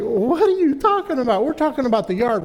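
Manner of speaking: loud, high indignant retort; defensive outburst. Retold or imitated. Father loudly protesting to son about the yard. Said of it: "I'm like".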